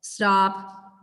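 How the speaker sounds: firm, drawn-out stop; not-pleased tone to a dog; displeased correction. Shown as a demonstration. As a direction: say it as a displeased command. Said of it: "with that same voice".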